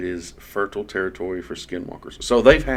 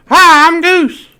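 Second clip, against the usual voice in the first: shrill, booming, very high, loud shout; 16 dB louder than usual. Doing another voice when asked, imitating Goose. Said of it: "do some other voices".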